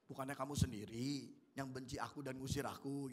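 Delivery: soft, low, calm reading of the line; calm, not angry. Shown as a demonstration. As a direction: read it gently without anger. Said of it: "Kita harus tahu cara bacanya".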